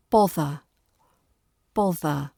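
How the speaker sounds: "Bother" with a clear voiced TH in the middle; careful TH in the middle. Shown as a demonstration. Teacher models "Bother" for learners, careful middle TH. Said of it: "Get that T H sound".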